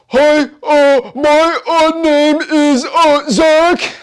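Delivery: high, halting mock-nervous voice; nervous caller. Coach mimicking a weirdo on a sales call, hammed-up nervous voice. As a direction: play a painfully awkward caller stumbling over an introduction. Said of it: "like, that nervous".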